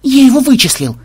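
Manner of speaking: high, elated exclamation; triumphant roar. A narrator's reading. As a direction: crow over the discovery. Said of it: "торжествующе взревел программист".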